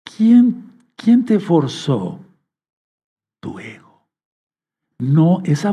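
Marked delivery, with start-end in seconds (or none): 0.0-2.2 emphatic rising challenge. Acted. Preacher asks the audience pointedly. 3.4-4.0 quiet answer. Acted. Preacher answers his own question.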